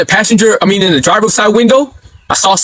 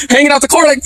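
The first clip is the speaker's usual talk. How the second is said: normal talking voice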